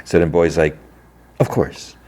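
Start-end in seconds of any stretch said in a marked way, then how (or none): 1.4-2.0 mildly sarcastic, higher-pitched agreement; a touch of mock courtesy; retold sarcasm. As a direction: feign gracious agreement, lightly mocking. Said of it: "obviously he's being sarcastic".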